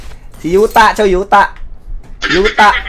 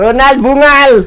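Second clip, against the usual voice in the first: high, slow, drawn-out holler; playful announcer-like yell; joking name shout; 6 semitones higher, 4 dB louder than usual. Pretend. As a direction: call the name out long and high.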